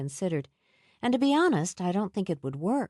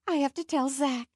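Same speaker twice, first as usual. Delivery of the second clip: excited; 8 semitones higher than usual. A narrator's reading. Nell eager to go.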